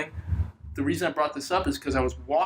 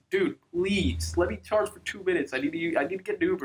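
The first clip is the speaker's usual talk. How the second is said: mock pleading, pitched higher; retold pleading; 3 semitones higher than usual. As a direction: beg lightly, retelling your own plea. Retold plea to store attendant.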